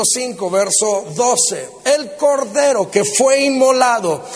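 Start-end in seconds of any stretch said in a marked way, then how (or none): 1.8-4.2 slow, stately Bible reading, each item set apart; scripture proclamation. Real, not acted. Preacher reads Revelation to the congregation, slow, solemn proclamation. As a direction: proclaim each attribute slowly and deliberately.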